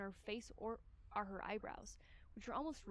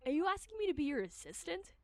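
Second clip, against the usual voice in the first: imperious detective woman; 2 semitones higher than usual. Acted. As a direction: bark Servant like a haughty boss. Shigure voiced.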